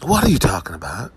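low-pitched, baffled question; deadpan disbelief. Acted. Comic reacting to vocal complainers, low deadpan disbelief. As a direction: drop the pitch and question them. Repeats the question in contrasting ways.

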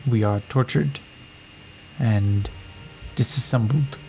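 formal, measured, a touch of fear; fearful warrior woman. Acted. Warrior woman tells Yakim her sisters live in fear.

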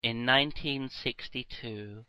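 low, soft dramatic trailer voice; movie trailer voiceover. Pretend. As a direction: intone it like an A-Team voiceover. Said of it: "like the fucking guy who does the voiceover".

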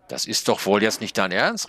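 high snail voice, exasperated call; little snail calling out in disbelief; indignant snail. A narrator's reading. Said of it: "rief die Schnecke". (empörte Schnecke, hoher Ausruf)

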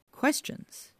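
high breathy rhetorical echo; questioning echo. A narrator's reading. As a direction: whisper it back as a question.

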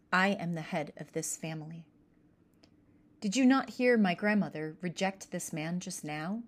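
a touch of firm, stern authority; stern, clear voice. Acted. Ashlak refusing his uncle's gifts, mildly stern. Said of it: "said in a stern, clear voice".

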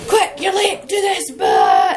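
high, then slow loud shout; mock hurried shout. TV crew rushing her in, a slow loud mock shout. Rushed TV staff.

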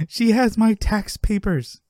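high, slow, aghast protest; mock panic, imitating a sitcom character; Jerry freaking out. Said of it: "Jerry's freaking out".

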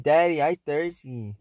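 a hint of a toddler asking Daddy; lightly voiced toddler. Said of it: "she'll be like".

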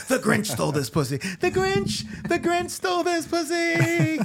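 rising to very high, drawn-out Grinch exclamation; building mock-triumphant proclamation. Retelling own line, escalating chant.

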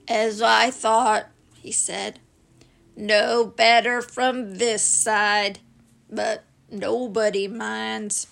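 lightly voiced glum donkey, dragging slowly; gloomy Eeyore. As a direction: sigh it out like a sad old donkey. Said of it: "said Eeyore gloomily".

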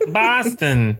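badly faked Boston accent; fake Boston accent. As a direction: exaggerate Boston as a would-be local. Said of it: "sound like you're not even from this country".

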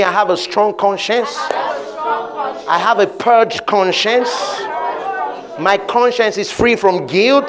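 steady declaring cadence; congregational declaration. Shown as a demonstration. Preacher leading the church in declaration. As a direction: lead them line by line. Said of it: "Say this with me".

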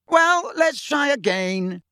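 high, slow, drawn-out call; rally the team from afar. A narrator's reading. Captain to team in the air, calling out.

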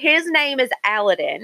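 Aladdin said as AL-uh-din; careful pronunciation. Shown as a demonstration. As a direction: stress the first syllable of Aladdin. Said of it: "do you say it".

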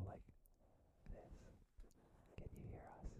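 very soft playful whisper into the mic; ASMR whisper. Pretend. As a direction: whisper it close, as a mock ASMR bit. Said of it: "is this like A S M R".

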